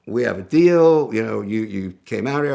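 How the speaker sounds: lightly hammed Japanese accent, insisting; fake Japanese accent. Dealer reminding the buyer he came out, mild fake Japanese accent. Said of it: "with my fake accent".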